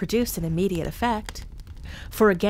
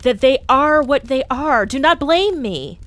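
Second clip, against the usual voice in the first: stern ghost; 7 semitones higher, 8 dB louder than usual. A narrator's reading. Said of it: "said the ghost".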